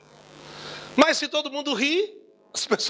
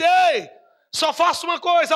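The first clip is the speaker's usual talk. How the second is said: emphatic call; 4 semitones higher, 4 dB louder than usual. Acted. Jesus quoted emphatically.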